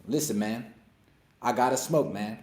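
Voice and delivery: a light laid-back rapper impression, barely shifted from his own voice; half-hearted rapper imitation, mostly his own voice; impression of a rapper. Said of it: "That's my rapper impression".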